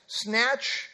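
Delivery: Snatch said alone with a rising lift; Snatch set apart and lifted; weighted word. Shown as a demonstration. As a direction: hold up the word Snatch for study. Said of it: "denotes the use of force".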